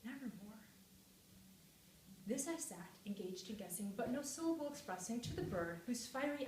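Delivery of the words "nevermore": quiet, understated raven's word; croaking raven. A narrator's reading. Narrator ponders what the ominous bird meant, a hushed hint of croaking. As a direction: softly echo the raven's croak. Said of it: "meant in croaking".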